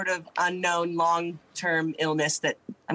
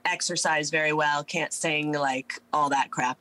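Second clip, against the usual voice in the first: hoarse sick voice. Real, not acted. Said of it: "sounding like I'm trying to be a sexy man".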